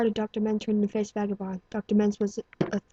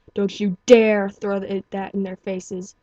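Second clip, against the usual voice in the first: stern inner voice; 7 dB louder, slower than usual. Acted. Inner scolding voice.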